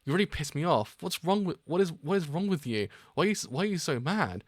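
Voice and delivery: angry yell. Acted. Acted quarrel over gunshot.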